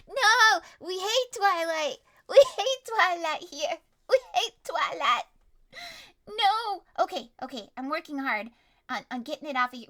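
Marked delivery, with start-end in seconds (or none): 0.1-6.8 yelling no. Acted. Players shouting down Twilight.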